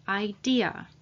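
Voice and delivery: idea, with an audible "a" at the end; final vowel pronounced. Shown as a demonstration. Teacher repeats idea for learners, final "a" sounded. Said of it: "we pronounce the "a" at the end".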